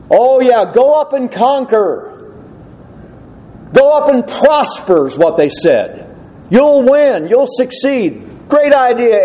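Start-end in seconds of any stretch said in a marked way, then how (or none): 0.1-5.1 lightly voiced eager yes-men, pitched higher. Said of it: "who were nothing but yes men". 6.5-9.2 lightly voiced eager yes-men, pitched higher. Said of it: "who were nothing but yes men".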